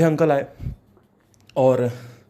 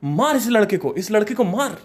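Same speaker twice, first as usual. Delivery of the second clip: woman egging him on; 5 semitones higher than usual. Retold or imitated. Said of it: "वो बोल रही".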